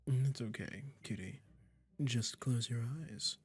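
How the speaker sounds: slow, drawn-out coaxing with lingering pauses; lightly hammed-up sweet, condescending captor; doting, possessive magician. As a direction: coo smugly to your new pet kitty. Magician soothing listener turned cat.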